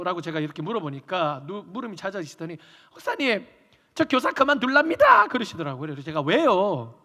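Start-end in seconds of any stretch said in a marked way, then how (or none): 2.9-7.0 high, pleading voice of a crying elder; mock weepy lament to the pastor; imitated tearful complaint. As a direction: plead as if in tears. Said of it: "그러면서 엄청 우시더라고요".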